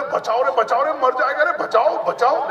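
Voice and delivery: high, loud cries of बचाओ; mock crowd shouting for help. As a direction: yell for help like a panicked crowd. (भीड़ की नकली पुकार, ऊँची और ज़ोरदार)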